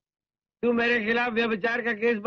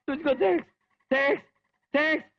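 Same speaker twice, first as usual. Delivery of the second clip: giddy, higher thanks to God; relieved thanks; 5 semitones higher than usual. Acted. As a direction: gush with relief at being alive. Thanking God after surviving.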